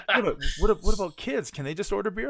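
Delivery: high, loud, stumbling mock disbelief; astonished questioning. Mom questioning son about beer at McDonald's, astonished. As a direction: sputter it like a scandalized mom.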